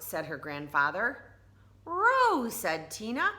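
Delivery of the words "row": high, louder eager cry; eager shout. Acted. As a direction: burst out with the idea. Tina eager.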